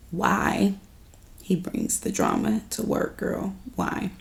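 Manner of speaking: hushed aside, breath only; whisper. Real, not acted. Vlogger confiding to viewers about the bank scenes, whispered. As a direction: lean in and whisper it.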